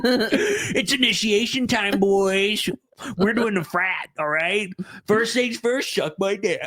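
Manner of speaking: hammed-up frat leader; mock frat bro. Frat initiation impression.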